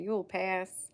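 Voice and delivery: put-on playful southern US accent; put-on southern reassurance. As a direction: lay on a light southern accent. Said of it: "feel the need to do a southern accent".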